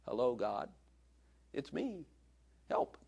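softly demonstrated plain prayer; simple prayer. Shown as a demonstration. Preacher showing how to reach God, simple soft prayer. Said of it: "You know, just like this".

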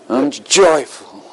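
slow, drawn-out, dutiful attempt; unconvincing joy. Jim tries again to convince God, unconvincingly. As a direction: stretch it out without quite meaning it. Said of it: "that is not very convincing".

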